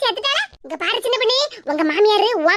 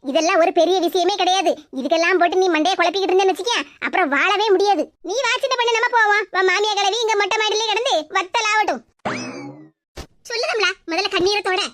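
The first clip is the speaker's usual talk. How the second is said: put-on lower, brisk neighbour consoling the young wife; a motherly neighbour, voiced lower and firm; neighbour woman; 4 semitones lower than usual.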